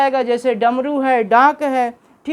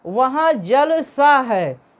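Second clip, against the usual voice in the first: slow example reading; much slower than usual. Shown as a demonstration. Teacher contrasting the hyphenated example for students, slow and deliberate. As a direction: slowly read "वहाँ जलसा है" as the hyphenated जल-सा, meaning like water. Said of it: "यहाँ जल और सा के बीच में योजक चिन्ह".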